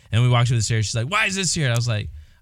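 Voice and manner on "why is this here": much higher, mock-annoyed nag; imitating a partner's passive-aggressive pickiness. Retelling the wife's nagging at home, higher passive-aggressive mock. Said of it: "it was all passive-aggressive annoyance".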